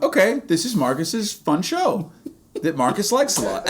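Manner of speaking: condescending. Retold or imitated. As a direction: humor him as if he were a child. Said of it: "that is so incredibly condescending".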